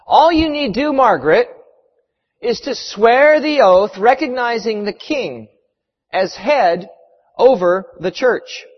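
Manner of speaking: lightly voiced trial official; offering judge. Judge offers Margaret freedom at trial.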